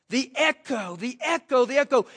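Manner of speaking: growing echo. Shown as a demonstration. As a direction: build it like a rising echo. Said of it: "Can you imagine the echo".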